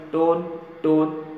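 टोन, टोन said slowly, one word at a time; teacher slowly counts टोन, टोन; slow counting. Shown as a demonstration. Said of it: "हमारा formula है टोन".

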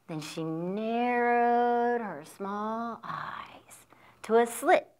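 slow suspenseful whisper. A narrator's reading. Storyteller whispering as the kitten narrows its eyes. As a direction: breathe it out, slow and secret.

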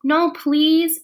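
high, loud frightened plea; begging in sudden fear. A narrator's reading. Frightened girl pleading not to tell parents. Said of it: "very frightened".

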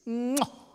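big smacking air kiss; exaggerated kiss smack. Chief asking a girl for a kiss, smacking kiss sound.

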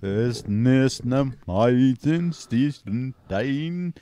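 slow, hammy fake German accent; mock German with hard final consonants. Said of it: "entertain us with his German accent impression".

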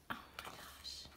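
breathless whispered oh my gosh; hushed, starstruck whisper; awed whisper. Real, not acted. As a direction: whisper it in disbelief. Whispering over the photos.

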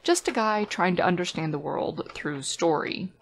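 crackly distorted audio; fuzzy, storm-hit recording; fuzz distortion. Real, not acted. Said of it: "I'm sorry about the distortion here".

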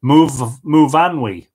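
Muvanwi, started haltingly then said whole; careful name pronunciation. Shown as a demonstration. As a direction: sound out Muvanwi with a firm middle syllable. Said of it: "My name is pronounced".

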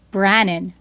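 ordinary delivery

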